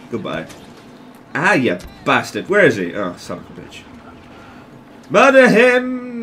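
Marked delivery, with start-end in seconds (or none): 5.1-6.2 slow, higher drawn-out order; eager command. Real, not acted. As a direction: stretch out the kill order. Urging kill.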